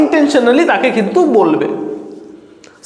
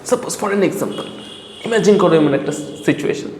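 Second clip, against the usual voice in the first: scene-setting hook; 5 semitones lower than usual. Acted. Teacher asks viewers to imagine entering someone's mind, hushed hook.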